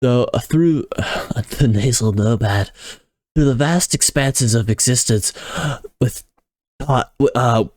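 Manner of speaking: laid-back surfer dude; hint of a surfer dude. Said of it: "falling into, like, a surfer dude".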